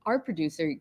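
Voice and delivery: ordinary talk, nothing marked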